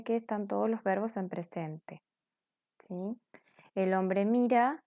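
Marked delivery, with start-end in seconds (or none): none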